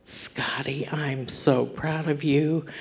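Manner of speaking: soft unvoiced whisper close to the ear; whispered praise. Father carrying his son off the field, whispering. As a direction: whisper it like a father holding his crying boy.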